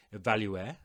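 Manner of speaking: évaluer said the French way; French accent on évaluer. Shown as a demonstration. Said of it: "excuse me for my French accent".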